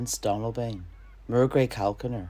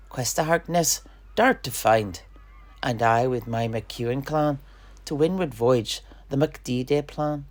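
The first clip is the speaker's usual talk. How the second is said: rousing verse. Acted. Rousing rhymed battle plan.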